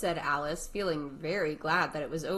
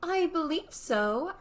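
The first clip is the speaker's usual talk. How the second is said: higher, slow and musing Alice; thoughtful; 12 semitones higher, 4 dB louder than usual. Acted. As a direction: weigh each word slowly, thinking aloud. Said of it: "Alice replied thoughtfully".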